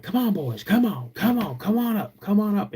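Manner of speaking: high calling out to dogs far off. Retold or imitated. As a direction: call the dogs across the yard.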